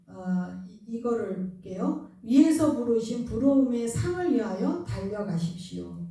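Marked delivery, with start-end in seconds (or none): 2.2-6.0 "위에서" stressed, the verse read out loud and firm; scripture recital. Shown as a demonstration. Pastor reciting the verse to the congregation, loud and firm. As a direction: proclaim the verse loudly. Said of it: "한 번만 듣고 아는 게 아니라".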